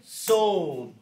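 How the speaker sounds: very slow, syllable by syllable; said slowly. Shown as a demonstration. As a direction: stretch each syllable out for the class. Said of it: "Let's say these slowly".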